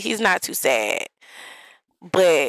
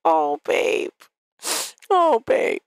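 excited Barbie; 3 semitones higher, slower than usual. Retold or imitated. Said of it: "It's like".

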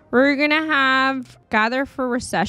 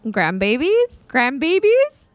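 hopeful grandmother-to-be; 3 semitones higher, slower than usual. Acted. Player voicing an excited Sim hoping for grandbabies, eager questioning. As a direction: ask it twice, drawn out, lifting the second. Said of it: "She's like".

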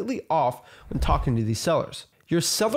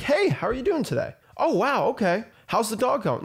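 higher, easygoing friendly chat; a caller greeting the seller like an old friend; regular Joe; 6 semitones higher than usual. Shown as a demonstration. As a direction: talk like a neighbor over the fence. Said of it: "just regular Joe stuff, you know, like you're talking to a neighbor".

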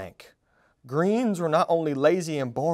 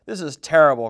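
louder dismayed cry; 6 dB louder, faster than usual. Acted. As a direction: berseru putus asa. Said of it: "cried Verdi".

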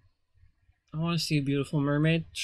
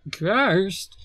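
mock shout; 3 semitones higher, 5 dB louder than usual. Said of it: "he shouts about it".

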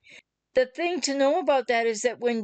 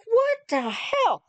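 higher, slow, disbelieving exclamation; exasperated what the hell; 11 semitones higher, slower than usual. Retold or imitated. Frustrated partner reacting to an unexplained outburst, exasperated. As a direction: stretch it out, baffled and fed up. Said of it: "'cause you're like".

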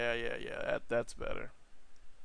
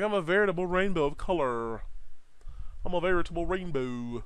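higher, put-on robot character voice; colorful robot character; 4 semitones higher than usual. Robot boasting about its colors, put-on high voice. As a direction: proclaim it in a raised character voice. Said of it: "He's like".

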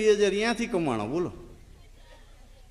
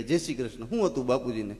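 hushed condolence; 5 semitones lower, 5 dB quieter than usual. Retold or imitated.

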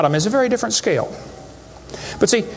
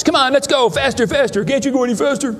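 mock kids shrieking for more speed; kids screaming for faster; 6 semitones higher than usual. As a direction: egg them on like thrilled kids on a ride. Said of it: "They're screaming at the football players".

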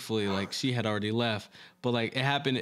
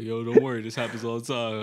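playing it cool; 3 semitones lower than usual. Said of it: "play it cool and be like".

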